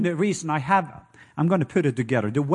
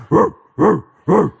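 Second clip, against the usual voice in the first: 1 loud hooting call; 7 dB louder than usual. Retold or imitated. Imitating night creature hoots.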